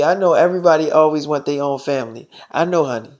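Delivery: low, soft soothing; gentle, understanding murmur; tender reassurance. Acted. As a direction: reassure a partner quietly. Soothes partner about wanting family.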